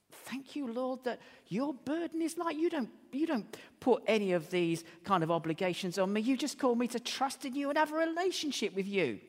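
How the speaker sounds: gently voiced thanks to God; prayer.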